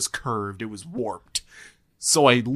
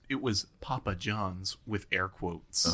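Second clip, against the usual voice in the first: hushed whispering; whisper yelling; 4 semitones lower, 9 dB quieter than usual. Real, not acted. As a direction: drop to a whisper. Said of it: "Why are we whispering?".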